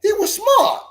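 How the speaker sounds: mocking sarcasm. Real, not acted. Mocking claim about her father.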